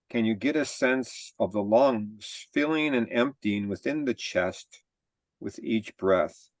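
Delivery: measured body-scan guidance with long pauses; guided meditation. Real, not acted. Teacher leading a group body scan, calm guided-meditation delivery. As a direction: guide them calmly, phrase by phrase, leaving room to breathe.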